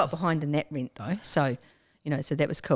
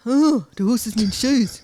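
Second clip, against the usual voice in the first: startled surprise; 6 semitones higher, 7 dB louder, slower than usual. Retold or imitated. Retold surprise about horseshoes.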